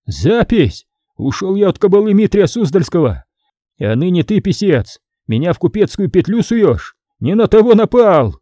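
a touch of hoarse indignation; hoarse defiance. Acted. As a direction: rasp out your refusal. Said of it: "захрипел".

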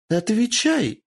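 high, loud commanding yell; shouted demand. Acted. Lord shouting at the tortured girl, commanding yell. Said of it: "выкрикнул Юидай".

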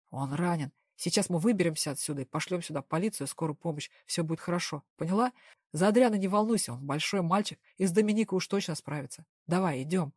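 steady her with a low calm voice; lightly voiced tough man. Devil voiced lower throughout.

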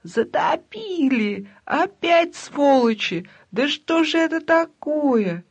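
high, panicked shriek; паника. Acted. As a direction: squeal in alarm at the flood. Соседка визжит о потопе. (визг в панике)

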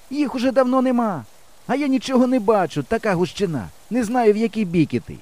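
high-pitched calling, complaining; shouting back. A narrator's reading. Lost boy answers his hidden friend, shouting back. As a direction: call out across the field in protest. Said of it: "кричу я".

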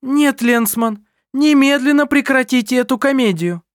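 loud, high, hard metallic command. Acted. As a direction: ring out cold and metallic. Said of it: "металлическим голосом произнесла фру Брандт".

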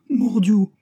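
loud, high-pitched curse; exasperated oath. A narrator's reading. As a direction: swear as if stamping a foot. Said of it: "s'écria le mousquetaire en frappant du pied". (juron exaspéré, crié)

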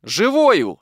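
stranger's ringing reply; loud exclamation. A narrator's reading. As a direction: announce the good news from the doorway. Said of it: "ответил ей незнакомый голос".

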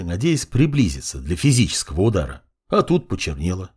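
ordinary delivery

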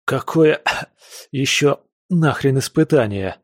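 hissed through a pinched nose, coughing. A narrator's reading. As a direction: hiss it out holding your nose. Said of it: "Прошипел я кое-как, зажимая пальцами нос".

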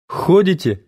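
high incredulous question; surprised. A narrator's reading. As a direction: ask it in disbelief.

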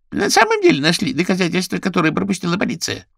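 put-on high squeaky young voice. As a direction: squeak it quickly. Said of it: "пропищал голос". (писклявый голос)

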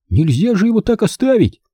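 high-voiced boy's objection; pleading child's protest. A narrator's reading. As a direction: object urgently, pitched high. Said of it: "возразил Бенжи".

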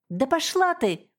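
nerves snap, she shrieks it out; shrieked. A narrator's reading. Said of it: "взвизгнула Регина".

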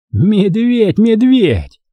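high, exasperated repetition; scornful echo, hardly a mutter; disgusted. A narrator's reading. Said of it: "пробормотал он с отвращением".

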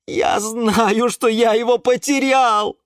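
loud, high admission; anguished exclamation. A narrator's reading. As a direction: cry it out, stung. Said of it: "воскликнул Юра". (громкое высокое восклицание)

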